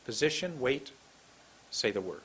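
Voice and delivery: POSITION, WAIT, then a pause before SAY THE WORD. Shown as a demonstration. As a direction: separate the steps, dropping low on SAY THE WORD. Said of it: "Wait one second".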